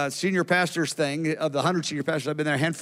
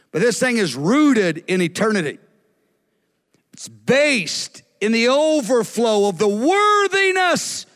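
higher, emphatic sermon delivery; impassioned preaching; 6 semitones higher, 4 dB louder than usual. Real, not acted. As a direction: drive each phrase home to the congregation. Preaches exhortation to the listeners.

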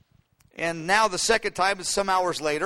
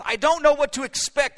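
exasperated dilemma; 8 semitones higher, 4 dB louder than usual. Acted. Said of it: "the dilemma of".

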